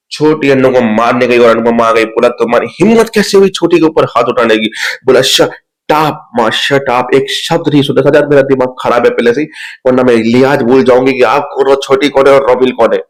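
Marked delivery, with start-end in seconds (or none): 2.3-4.7 indignant scolding. Retold or imitated. Retold scolding in family fight. 5.2-13.0 retold angry outburst, mildly heated. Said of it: "ऐसे करके गुस्सा चली गई".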